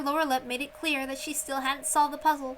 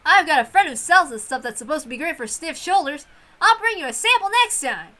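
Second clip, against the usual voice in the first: higher, louder chatty voice; bright neighbourly offer; a relative chatting kindly with the captain; friendly relative; 3 semitones higher, 8 dB louder than usual. Acted.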